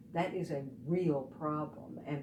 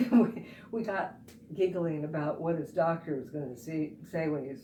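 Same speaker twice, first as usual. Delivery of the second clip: giggly, amused retelling; tickled by your own anecdote; laughing while telling; 3 dB louder than usual. Real, not acted. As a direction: tell it through leftover giggles.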